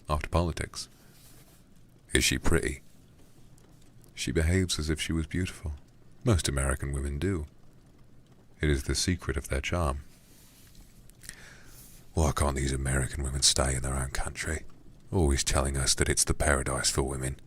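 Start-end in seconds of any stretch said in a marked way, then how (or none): 2.1-2.8 put-on Cockney accent. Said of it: "a Cockney voice for this guy". 12.1-17.4 put-on Cockney accent. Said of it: "a Cockney voice for this guy".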